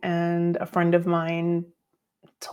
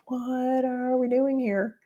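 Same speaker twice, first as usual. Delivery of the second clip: bemused mock question; 6 semitones higher, 3 dB quieter, slower than usual. Inner thought at son's sweeping.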